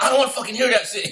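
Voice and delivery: high, loud mock outburst, half laughing; retold outburst. Davey telling off the sergeant, mock angry high shout. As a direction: throw his angry words out, grinning while telling it.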